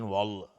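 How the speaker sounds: "وال" said thick and dark; wrongly heavy letters. Shown as a demonstration. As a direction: mimic the mistake, a heavy back vowel in "وال".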